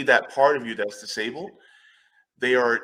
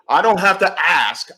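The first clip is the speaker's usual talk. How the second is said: laughing; 5 semitones higher, 9 dB louder than usual. Real, not acted. Laughing while making her point.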